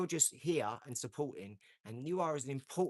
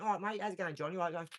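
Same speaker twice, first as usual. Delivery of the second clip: higher-pitched English bloke's greeting; local English greeting; 5 semitones higher, faster than usual. Acted. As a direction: put on a matey English accent. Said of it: "went to over here and went".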